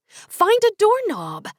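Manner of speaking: high, slow, loud shout. A narrator's reading. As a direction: call it out slowly and high. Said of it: "I shouted in my mind".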